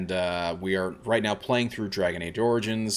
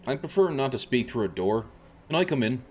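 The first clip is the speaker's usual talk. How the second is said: put-on weak, hammy Irish accent; polite lines in a bad Irish brogue. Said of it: "I'm doing a very bad Irish accent for my character".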